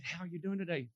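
soft, careful hello; softened, unthreatening greeting; careful gentle greeting. Retold or imitated. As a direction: greet them gently so as not to startle. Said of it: "Okay, do this very slowly".

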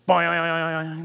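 loud imitated error beep, boing; rejected pass boing. Ticket gate refusing the pass, imitated boing. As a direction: mimic the gate machine rejecting you. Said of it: "that sound as you go through".

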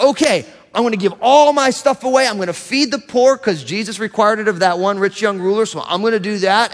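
mock eager resolve. Mimics eager self-sacrificing believer.

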